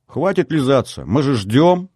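put-on high, impatient girl's call; high girlish voice. A narrator's reading. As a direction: hurry her up teasingly. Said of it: "послышался высокий девичий голос".

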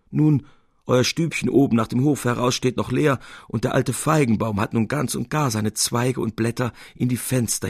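put-on old widow surprised at night. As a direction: greet the lost lodger with delight. Old widow greets Salvator.

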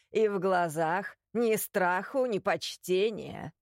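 put-on stern old man, slowing down; lightly voiced commanding old man; stern old inquisitor. Inquisitor silences her with magic.

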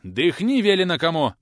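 loud barking command; teacher barking at the boy to breathe; barked order. Acted. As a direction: bark the order at him. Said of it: "рявкнул преподаватель".

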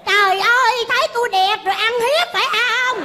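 high-pitched jostled outrage; indignant protest. Acted. Jostled by crowd, cries out in protest.

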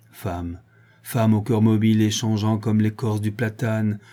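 a betrayed soldier's grief, understated; sorrowful. Acted. Soldier cursing his faithless sweetheart, mild sorrowful tone. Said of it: "Et il ajoutait douloureusement".

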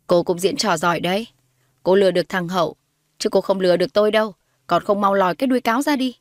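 lightly voiced hostile mother, pressing her accusation; acted, firm scorn; scornful accusing mother. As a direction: accuse her with rising contempt.

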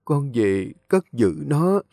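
put-on an old lady calmly settling her affairs before death; frail grandmother. Old grandmother gives her last wishes.

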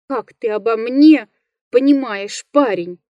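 mildly moaned protest; moaning. Acted. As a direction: complain with a touch of a moan. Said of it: "простонал лесник".

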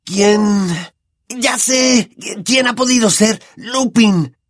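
high, excited, giggly guessing; laughing. Acted. Ron laughing on Harry's bed, guessing Lupin, giggly. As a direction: blurt it out through laughter. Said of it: "Ron se retorcía de la risa".

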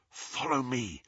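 soft whispered order. A narrator's reading. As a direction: whisper it to the group. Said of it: "he whispered".

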